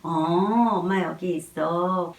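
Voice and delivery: put-on calm the crying baby gently; tender reassurance to a baby; soothing mother's voice. Shown as a demonstration. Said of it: "그러면서 목소리는".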